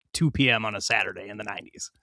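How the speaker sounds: whispered aside, unvoiced; hushed mock whisper. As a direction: breathe it like a secret joke. Whispered aside about bad TV.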